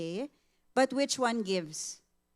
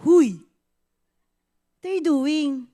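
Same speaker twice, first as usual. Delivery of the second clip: louder, higher rebuke; sharp wake-up call; 6 semitones higher, 10 dB louder than usual. Retold or imitated. The Lord jolts the mom awake, louder and higher. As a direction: snap her out of it.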